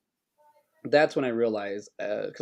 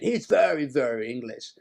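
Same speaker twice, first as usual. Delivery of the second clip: put-on English accent. Mimicking the accent being described.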